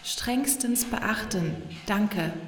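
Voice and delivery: a crackly machine voice from a device; a hint of a tinny announcement demanding silence; distorted speaker voice. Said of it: "zischte es verzerrt aus dem Gerät".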